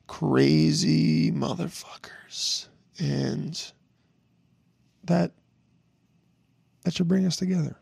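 slow whisper, letting listeners in on it; whispered aside. Real, not acted. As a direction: whisper it slowly like a shared secret.

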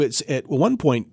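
ordinary talk

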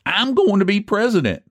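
high-pitched, eager exclamation; boyish eagerness. A narrator's reading. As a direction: claim the job like an eager boy. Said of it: "exclaimed Eph with all the eagerness of a boy".

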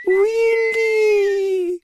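a very high, thin whistling creature voice; high whistled cry. Acted. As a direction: whistle the word like a strange little being. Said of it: "whistled the little warm blue pyramid".

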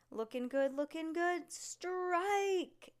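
building to a strike yell. Acted. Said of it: "yelled the human bowling pin".

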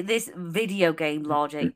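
sliding into British; accidental British accent; British accent slip. Real, not acted. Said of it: "Uh-oh, you turned British".

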